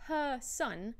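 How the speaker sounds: "her son" with no R at the end of "her"; non-rhotic "her son", open vowel in "her"; silent linking R. Shown as a demonstration. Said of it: "you don't pronounce the R".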